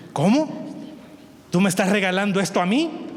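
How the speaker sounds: high, incredulous question; can't believe the gift; disbelief. Acted. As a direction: neighbor stunned to be given vegetables. Neighbor stunned by gift.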